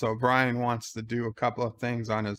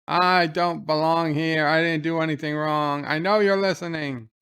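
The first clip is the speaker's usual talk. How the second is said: raised-pitch mock protest; retold angry outburst; 2 semitones higher than usual. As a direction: act out a fed-up prisoner's protest, half-shouted. Retold prison outburst, banging on door.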